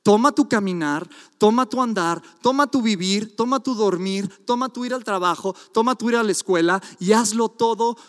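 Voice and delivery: "toma" repetido con ritmo; preaching exhortation. Acted. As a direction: exhorta martillando cada "toma". (exhortación rítmica de predicador)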